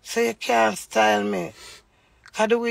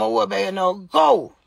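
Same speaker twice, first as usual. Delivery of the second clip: retold angry dismissal; 5 dB louder than usual. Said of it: "how me tell him".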